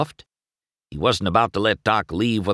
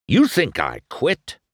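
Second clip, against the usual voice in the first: higher, forceful challenge; demanding; 7 semitones higher, 4 dB louder than usual. A narrator's reading. Doc demanding of McQueen, sharp and challenging. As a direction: throw the question back at him. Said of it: "Doc demanded".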